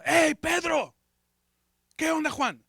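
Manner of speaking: calling out high to the other marchers; eager and pushy, can't wait to shout; impatient urging. Retold or imitated. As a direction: himself at Jericho urging Pedro and Juan to shout now. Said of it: "Le digo".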